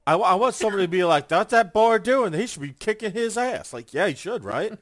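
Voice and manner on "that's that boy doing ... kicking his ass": loud, high hammed-up fan heckling; high mock yell of a rowdy fan. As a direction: bellow it like a rowdy fan in the stands. Fan yelling at the wrestler.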